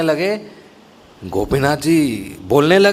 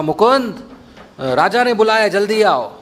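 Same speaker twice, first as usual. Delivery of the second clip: urgent summons; 5 semitones higher than usual. Acted. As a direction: call him in a hurry. Servant summons Mukund urgently.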